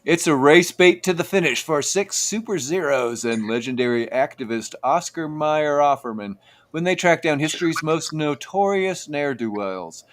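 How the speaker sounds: movie-trailer announcer read; trailer narration. Acted. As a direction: sell it like a show promo. Reading the show's title blurb.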